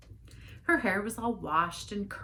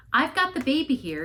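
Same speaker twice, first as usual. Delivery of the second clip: loud, high bark at the wise men; sharp loud bark guarding the baby; 10 semitones higher, 8 dB louder than usual. A narrator's reading. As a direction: snap it out like a warning. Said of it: "barked at the wise men".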